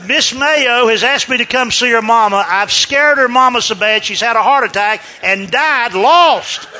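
loud, high, comic dismay; mock panic. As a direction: fret aloud as if you caused a disaster. Panicked thought after scaring old lady.

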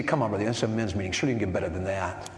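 quick imagined listener complaint; imagined objection. Retold or imitated. Men's meeting listener objecting, fast and a touch mocking. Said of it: "You say".

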